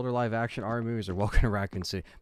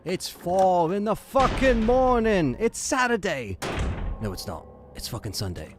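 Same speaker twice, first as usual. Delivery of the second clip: put-on furious British accent shout, much higher and louder; British accent rant; 8 semitones higher, 7 dB louder than usual. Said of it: "Can you do that British accent again?".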